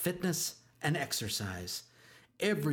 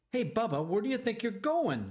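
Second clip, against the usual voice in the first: high, loud yell across the field; 10 semitones higher, 3 dB louder than usual. A narrator's reading. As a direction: call him out loud and high. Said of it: "yelled Pop Fly from the field".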